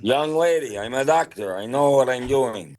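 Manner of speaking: high, put-on cartoon doctor voice; Zoidberg. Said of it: "Zoidberg is like".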